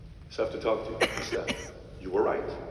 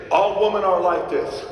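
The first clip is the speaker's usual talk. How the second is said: imitating dad; 6 semitones higher, 8 dB louder than usual. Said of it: "my dad used to say".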